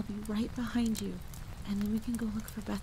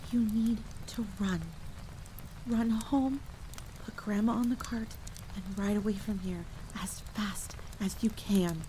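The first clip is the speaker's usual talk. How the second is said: breathed whisper; 3 semitones higher than usual. A narrator's reading. Mother to child hiding from the creature, breathed whisper. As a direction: breathe it urgently into the ear. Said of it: "she breathed against my ear".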